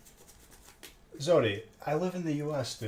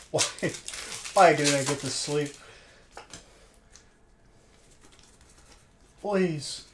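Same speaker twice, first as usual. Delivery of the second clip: higher, louder mock wail begging for sleep; whiny pleading; 5 semitones higher, 5 dB louder, slower than usual. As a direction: plead like an exhausted kid who wants sleep. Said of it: "I'm like".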